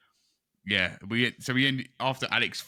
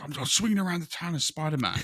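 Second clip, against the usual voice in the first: giddy excitement; 9 semitones higher than usual. Retold or imitated. Gamer telling friends he's Spider-Man, high giddy squeal. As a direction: squeal like a kid living his dream. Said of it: "That is exactly how I sounded on this".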